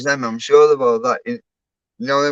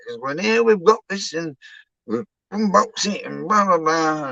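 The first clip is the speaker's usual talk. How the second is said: imitating YouTuber; 5 semitones higher than usual. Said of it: "and it was like".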